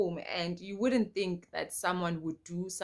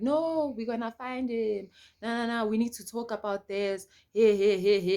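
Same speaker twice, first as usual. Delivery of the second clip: a touch of an insistent uncle; calm him down, slightly higher; mild uncle voice; 3 semitones higher than usual. Retold or imitated. Uncle tells her to talk it out, lightly voiced.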